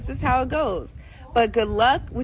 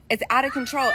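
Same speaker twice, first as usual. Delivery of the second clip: raised, exasperated repeat; fed-up yell at the state of things; frustrated shout. Real, not acted. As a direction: shout it out in disbelief. Angry rant about Southern California.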